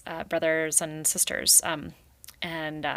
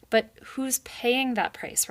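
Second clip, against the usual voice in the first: screamed; 6 semitones higher, slower than usual. Acted. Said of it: "Rai screamed".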